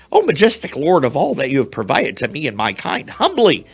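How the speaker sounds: very high, squeaky, begging mouse voice; pleading mouse. Acted. Mouse begging the bear to spare his life, high squeaky plea. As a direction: beg for your life in a tiny high squeak.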